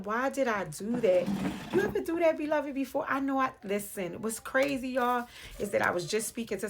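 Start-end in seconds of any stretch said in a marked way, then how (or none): 0.0-1.3 drawn-out, slow "Why did I do that?"; slow, wondering self-question; slow puzzled question. Pretend. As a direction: stretch "Why did I do that?" out in mock regret. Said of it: "you're gonna be asking".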